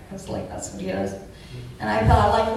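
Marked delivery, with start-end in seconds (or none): none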